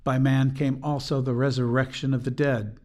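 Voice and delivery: bright, declaring "by man came also the resurrection of the dead"; joyful and declarative. Shown as a demonstration. Speaker showing the anthem's shift, joyful and declarative. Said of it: "joyful and declarative".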